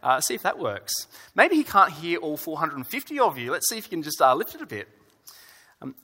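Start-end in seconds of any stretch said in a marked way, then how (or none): 0.0-4.9 mocking taunt, a bit raised; sarcastic. Elijah mocking Baal's prophets, sarcastic taunt. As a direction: jeer at them to shout louder. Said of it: "Elijah tells them very sarcastically".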